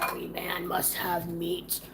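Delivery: hushed, breathy aside; whispering. Acted. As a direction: whisper it like a secret. Whispered aside over the meat.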